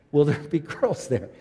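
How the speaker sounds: put-on laughing mid-question at "girls"; laughing retelling. Pastor laughing at his young self asking about girls. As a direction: chuckle through "Will there be girls there?". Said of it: "I remember saying that".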